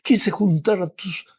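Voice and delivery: ache over the ones who refused; pleading Jesus. Acted. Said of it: "Eso es lo que le dijo a Jerusalén".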